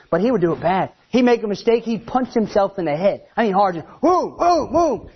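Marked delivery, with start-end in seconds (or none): 4.0-5.1 startled whoa. Retold or imitated. Startled at kid's punching.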